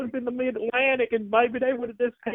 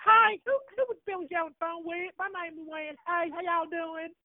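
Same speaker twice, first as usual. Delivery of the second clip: angry Southern woman. Acted. Caller plays Luann, angry fan.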